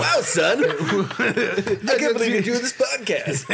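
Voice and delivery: dad voice. Retold or imitated. Friend joins in dad voice.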